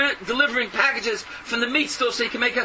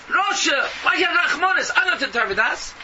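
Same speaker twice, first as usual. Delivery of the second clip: preaching shout; 3 semitones higher than usual. Acted. Preacher berating his listeners.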